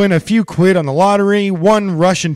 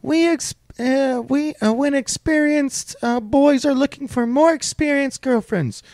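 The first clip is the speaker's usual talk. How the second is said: higher, lightly put-on Russian accent; mock Russian woman; 10 semitones higher than usual. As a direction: quote her in a coy Russian voice, higher. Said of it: "she said".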